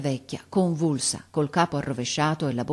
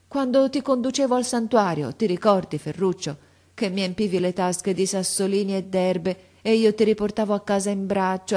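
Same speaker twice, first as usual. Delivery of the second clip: grandmother's lament; 2 semitones higher than usual. Acted. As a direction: plead with the boy through her hurt. Grandmother's long plea.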